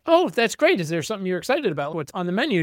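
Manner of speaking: mother fishing for an answer, mock cheerful; mock cheery mom. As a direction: put on a chirpy mom voice. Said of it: "And Dana's like".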